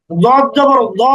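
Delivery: final দ with a rounded o, not aa; দ said as "do", never "daa"; no aa vowel. Shown as a demonstration. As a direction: keep দ on an o sound despite the zabar. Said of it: "জবর হওয়া সত্ত্বেও আকার হয় না".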